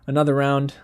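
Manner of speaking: loud, fed-up call of another round; exasperated outburst. Real, not acted. Reviewer venting about the foreign language snub, loud and fed up.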